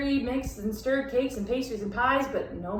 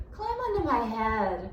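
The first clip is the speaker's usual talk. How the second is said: sly, smug fox voice; smirking fox. A narrator's reading. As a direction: smirk as you say it. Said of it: "smirked the fox".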